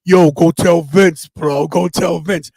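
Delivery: loud, drawn-out retold urging; Scott Hall. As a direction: lightly imitate a wrestler pushing a pal. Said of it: "And he goes".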